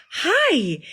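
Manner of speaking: put-on high, cute toddler greeting; imitating little daughter. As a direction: squeak it like a small girl. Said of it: "she was like".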